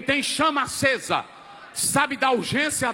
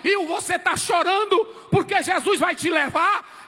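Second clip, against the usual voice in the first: high, shouted sermon storytelling; fervent preacher retelling a farewell; impassioned preaching; 4 semitones higher than usual. Real, not acted. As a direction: cry out the story to the congregation. Preacher tells deathbed story forcefully.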